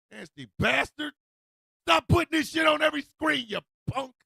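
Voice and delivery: high, indignant telling-off; mock outrage. The speaker telling off roommate Todd, mock outrage. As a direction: scold him at full comic pitch.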